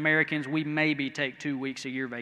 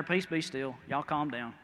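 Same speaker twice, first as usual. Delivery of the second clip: calm command; 3 semitones lower, 6 dB quieter than usual. Retold or imitated. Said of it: "he goes up there".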